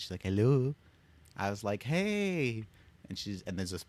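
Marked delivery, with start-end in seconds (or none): 0.2-0.7 lightly imitated Portuguese grandmother's accent. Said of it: "with her little Portuguese accent". 1.8-2.6 high, drawn-out hello to grandma; retold greeting. Calling grandmother over the intercom.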